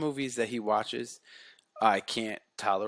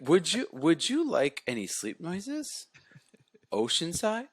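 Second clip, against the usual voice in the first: toy robot voice; 7 semitones higher, slower than usual. Retold or imitated. Voicing robot cat.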